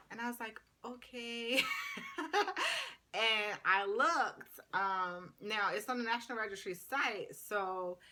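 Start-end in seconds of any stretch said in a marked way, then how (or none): 0.8-4.6 high giggle breaking through the words; laughing. Real, not acted. Checking her test scores, laughing. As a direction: laugh it out nervously.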